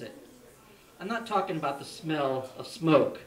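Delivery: measured recital with deliberate pauses; poem reading. Real, not acted. Poet reads audience a poem about evil personified, measured recital. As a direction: read your poem aloud, phrase by phrase.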